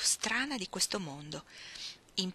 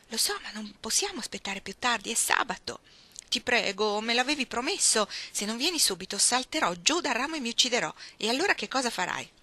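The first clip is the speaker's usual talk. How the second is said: a lightly voiced girl, higher and coaxing; pleading tomboy Iggy; 4 semitones higher than usual. Iggy at the window begging Ruth to come, lightly voiced pleading. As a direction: wheedle like a stubborn kid who won't take no.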